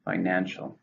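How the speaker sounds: "Financial" stressed on NAN, falling; stress on second syllable. Shown as a demonstration. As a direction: model "Financial" as fi-NAN-cial. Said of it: "stress in the second".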